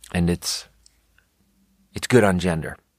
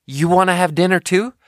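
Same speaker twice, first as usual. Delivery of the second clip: higher, a lighter take on the friendly Italian; Italian host; 10 semitones higher than usual. Retold or imitated. Italian family inviting the guest to stay, lightly voiced and higher. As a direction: toss off a casual dinner invite, pitched up. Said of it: "you would be like".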